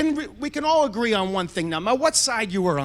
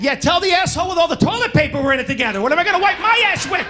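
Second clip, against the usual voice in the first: indignant retort; 5 semitones higher than usual. Retold or imitated. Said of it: "I said".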